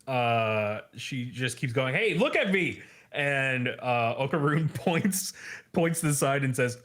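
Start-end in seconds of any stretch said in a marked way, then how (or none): 1.9-2.8 mock insistent demand, pitched high; Momo. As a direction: hound him in a higher put-on voice. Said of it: "she kinda keeps hounding him".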